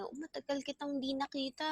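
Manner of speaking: bright, high, quick happy-to-see-you greeting, lightly voiced; delighted greeting. Shown as a demonstration. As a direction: greet an old friend with a fast, eager lift. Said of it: "Okay, it's like that".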